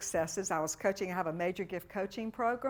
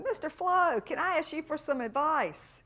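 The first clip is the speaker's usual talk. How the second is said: sweet asking voice; 9 semitones higher, 5 dB louder than usual. Retold or imitated. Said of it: "and I said".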